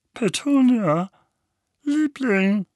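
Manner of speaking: high, slow, fearful plea; anxious. Acted. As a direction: anxiously coax his wife. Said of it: "sagte Onkel Vernon ängstlich".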